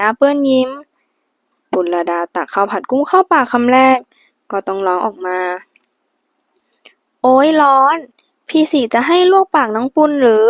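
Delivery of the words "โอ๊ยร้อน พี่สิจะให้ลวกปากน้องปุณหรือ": higher and louder, playful fake scold; mock scolding. A narrator's reading. Wife, burnt by hot rice, mock-scolds husband. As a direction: pretend to be cross about the hot rice. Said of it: "แกล้งทำเสียงดุใส่".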